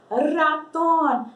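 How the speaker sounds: "ratón" slowly, with a trilled initial R; rolled R, slow. Shown as a demonstration. Teacher showing Spanish "ratón" with a rolled R, slowly. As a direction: roll the R at the start of "ratón". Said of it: "Vamos forçar aí".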